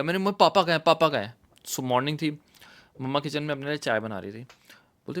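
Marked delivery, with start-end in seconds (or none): 0.2-1.3 frantic calling. Retold or imitated. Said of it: "मैं भागता हुआ गया".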